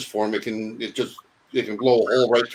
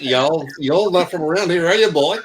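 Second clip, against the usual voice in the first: put-on Southern accent; 2 semitones higher than usual. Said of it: "did they speak in a southern accent".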